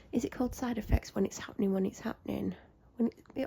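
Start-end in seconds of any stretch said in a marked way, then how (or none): none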